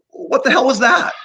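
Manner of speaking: high-pitched, loud disbelief; shocked question. Retold or imitated. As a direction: blurt it out, stunned. Stunned by the doctor's act.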